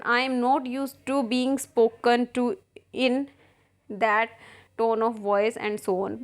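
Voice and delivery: reads the English lines slowly, word by word; slow play reading. Acted. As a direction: spell out each line of the play for the class. Teacher reads play aloud. (धीमा नाट्य पाठ)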